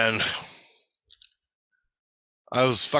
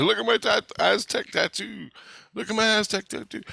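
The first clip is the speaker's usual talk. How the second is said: showing off; 9 semitones higher than usual. Retold or imitated. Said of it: "and I said".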